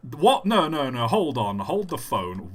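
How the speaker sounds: real astonishment, firing off stunned questions; shocked disbelief. Real, not acted. Streamer to a player who just caught something bizarre, shocked disbelief. Startled by a catch in game.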